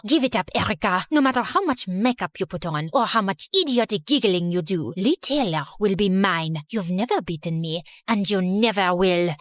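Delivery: low, cold rival taunt; Genevieve's voice. Acted. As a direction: sneer it like a snooty rival. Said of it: "Genevieve marched up to me angrily".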